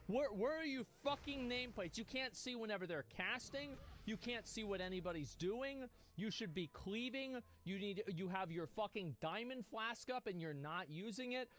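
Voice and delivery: exasperated scolding rant; mounting irritation at a player's mistakes; getting pissed. Real, not acted. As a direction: tell off a teammate in real frustration. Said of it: "Oh, I'm getting pissed".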